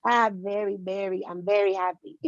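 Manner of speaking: lightly imitated Latino accent on VERY; dad's thick accent. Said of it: "my dad has the thickest accent".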